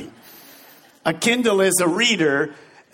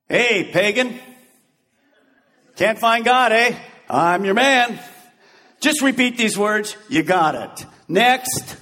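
brusque mock evangelist; 3 semitones higher, slower than usual. Tactless witness processing a stranger, pushy and brusque. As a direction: rattle them through like a queue.

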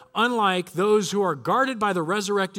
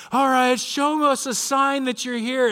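higher, slow call to a spirit; drawn-out, raised voice addressing the spirit; séance summons; 6 semitones higher, 3 dB louder, slower than usual. Retold or imitated. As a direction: imitate a friend summoning a ghost. Friend calls on the spirit.

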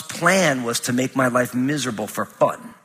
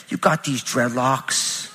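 laughing tease; 4 semitones lower, 4 dB quieter, slower than usual. Retold or imitated. Daughter mocking dad's hair.

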